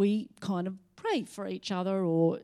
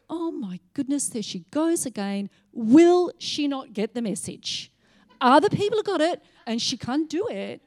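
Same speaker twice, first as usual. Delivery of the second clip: imitating the Lord, higher and louder in mock exasperation; hammed-up sigh of despair at her; exasperated Lord; 4 semitones higher, 6 dB louder than usual. The Lord complaining to the Holy Spirit, mock exasperated. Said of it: "imagine the Lord saying to the Holy Spirit".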